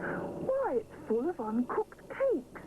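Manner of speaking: high, slow amazed gasp; surprised discovery. Acted. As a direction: marvel at the room of cakes.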